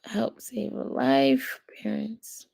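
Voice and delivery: breathy whispered read-out; soft hushed whisper. Acted. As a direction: whisper it like a secret plea. Reads site banner in whisper.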